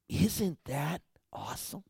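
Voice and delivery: soft whispered aside; awed whisper. Real, not acted. Preacher marvelling to the congregation, whispered. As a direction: share it as a hushed secret.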